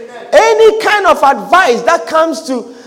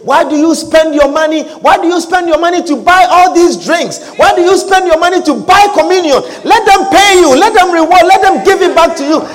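higher, insistent imitated complaint; mock disapproving adviser; 4 semitones higher than usual. Adviser objecting to money spent on church, mock indignant. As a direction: build from questioning to pushy mock demands. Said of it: "The voice that comes to you and say".

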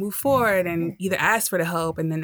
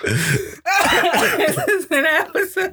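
laughing; 13 semitones higher, 6 dB louder, much slower than usual. Real, not acted. Cracking up at the banter.

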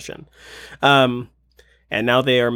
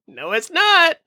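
excited; 3 dB louder, slower than usual. Real, not acted. Teasing reveal, high pitch.

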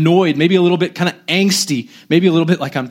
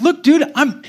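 higher-pitched, incredulous mock outburst; volatile exasperation; 6 semitones higher than usual. Preacher imagining himself as Jesus facing doubting disciples, volatile exasperation. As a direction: argue in disbelief, as if badly affronted. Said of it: "'cause I'm very volatile".

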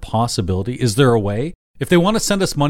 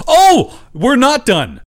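dramatic game-show reveal; 5 semitones higher, 4 dB louder, slower than usual. Acted. Host springs the game on them.

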